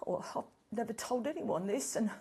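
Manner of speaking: mock-tearful, a little overcome; blubbing. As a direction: confess as if about to blub. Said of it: "here I am blubbing".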